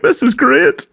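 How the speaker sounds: imitating smitten coworker. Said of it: "And she's like".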